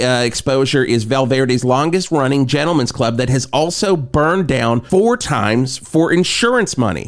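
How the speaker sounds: mock radio promo; radio ad read. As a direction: pitch the event like a local DJ.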